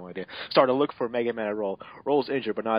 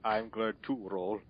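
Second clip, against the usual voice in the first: Mega Man; 10 dB quieter, slower than usual. Acted. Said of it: "Mega Man said".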